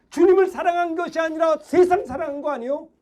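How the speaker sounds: ordinary talk, nothing marked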